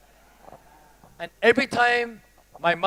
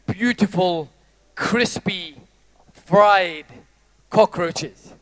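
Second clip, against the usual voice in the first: guided visualization. Acted.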